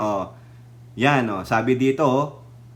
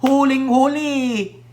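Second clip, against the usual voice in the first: mocking; 6 semitones higher, slower than usual. Real, not acted. Mocking, caught in the act.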